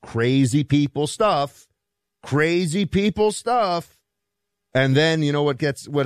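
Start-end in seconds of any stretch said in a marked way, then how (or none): 0.0-4.0 mocking quote. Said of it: "people who were shouting the loudest".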